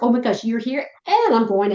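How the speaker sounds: a dog thrilled about the leash; excited dog. Pretend. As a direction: voice the dog bouncing with joy. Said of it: "So they're just like".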